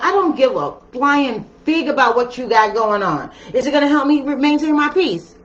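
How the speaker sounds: high, laughing, sassy dismissal; laughing mock sass. Scorpio shrugging off someone's drama, laughing and sassy. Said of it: "my Scorpios are like".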